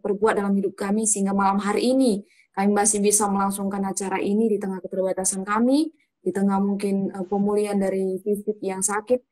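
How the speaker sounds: calm, earnest opening prayer. Acted.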